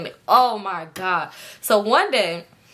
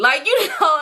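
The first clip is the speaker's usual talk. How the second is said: talking through giggles; laughing; 7 semitones higher, 4 dB louder than usual. Real, not acted. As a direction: let the laugh spill into the words. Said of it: "Bitch, I already laughed".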